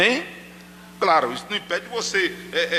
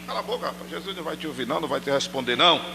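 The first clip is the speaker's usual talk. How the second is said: low, soft dismissive aside; muttered shushing; 4 semitones lower, 5 dB quieter, much faster than usual. Acted. Bystander telling the blind man to be quiet, low soft scolding. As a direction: hush him under your breath. Acted bystanders hushing Bartimeu.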